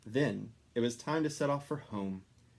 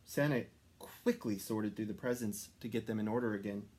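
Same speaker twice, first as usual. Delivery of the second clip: plain reading voice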